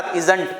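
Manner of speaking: isn't ending in a hard t, 'iz-unt'; wrong isn't. Shown as a demonstration. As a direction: say isn't the mistaken way, 'इज़ंट'. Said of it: "There is no isn't।". (isn't को गलत ढंग से 'इज़ंट' बोलना)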